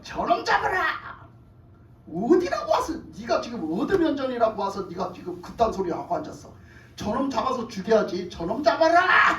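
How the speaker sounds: furious king ordering his guards; angry king's order. Acted. King orders the prophet's arrest.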